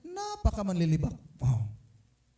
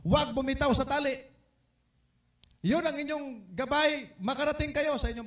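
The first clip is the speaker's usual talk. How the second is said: higher, firm command; firm instruction; 9 semitones higher than usual. Retold or imitated. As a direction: tell them firmly not to let go. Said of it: "Ang instruction". (matatag na utos: huwag bumitaw)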